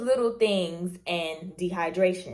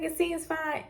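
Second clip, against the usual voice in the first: dentist voice; 10 semitones higher than usual. Retold or imitated. Dentist voiced in retold story.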